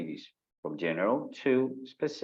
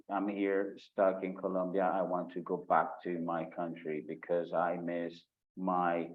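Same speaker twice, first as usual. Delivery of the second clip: flat, droning, every word the same pitch and pace; monotone demo; 3 semitones lower than usual. Shown as a demonstration. Teacher shows students the boring monotone way to speak. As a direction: drone on without any melody. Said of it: "don't speak in a monotone".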